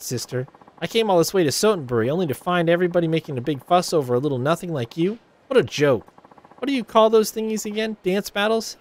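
high, scornful put-downs; catty Ulala sneering at Haruka; snide rival idol. Acted. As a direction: belittle the upstart.

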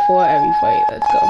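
high voice. Real, not acted. Sudden high shout.

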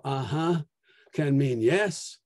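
"uh-huh" said slowly with a rising, agreeing tune; uh-huh as yes. Shown as a demonstration. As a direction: let "uh-huh" sound like a slow yes. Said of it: "tone of voice can completely change the meaning".

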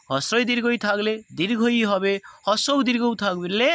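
"দীর্ঘই" drawn out slowly, word by word; slow teaching. Shown as a demonstration. Teacher slowly dictating the rule to students. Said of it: "আবার বলছি".

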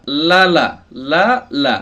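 লা with a short vowel, not drawn out; no stretching. Shown as a demonstration. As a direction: say each লা without lengthening it. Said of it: "টান দেওয়া যাবে না". (টান ছাড়া ছোট করে লা)

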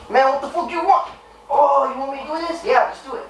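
high, annoyed cholo voice; Chulo the Cholo. Acted. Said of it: "Chulo the Cholo".

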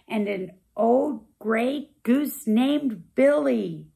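lively storybook rhyme; rhythmic picture-book narration; reading to children. A narrator's reading. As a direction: read it bouncy for little kids. Reads picture book aloud.

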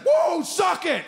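high, drawn-out jeering yell; mock taunt. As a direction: jeer in a defeated man's face. Acts taunt nobody actually shouted.

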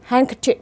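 handkerchief with the d left silent. Shown as a demonstration. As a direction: say "handkerchief" as HANG-ker-chif, no d. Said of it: "thì cái âm đó coi như không có". (đọc "handkerchief" với âm d câm)

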